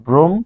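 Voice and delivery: ব্রহ্ম broken as "brom ... mo"; split syllables. Shown as a demonstration. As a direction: hold the m, pause, then finish ব্রহ্ম. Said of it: "তাহলে হবে". (ব্রহ্ম ভেঙে ব্রোম্ ... মো)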